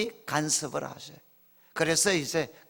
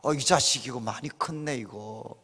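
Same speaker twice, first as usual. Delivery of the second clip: tag; 6 semitones lower, 6 dB quieter than usual. Pretend. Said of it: "이렇게 반응했을 것 같아요".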